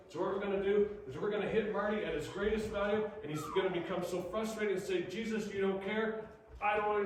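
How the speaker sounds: hammed-up villain scheming, pushing it fast and high; scheming demons voice. Demons voiced plotting, higher louder.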